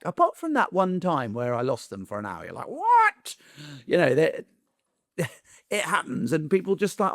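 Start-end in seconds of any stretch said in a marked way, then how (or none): 2.7-3.4 a sudden high, loud squeak of disbelief; shocked what. Retold or imitated. Owner hearing the dog was lost, squeaking in shock. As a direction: shriek the word in mock shock.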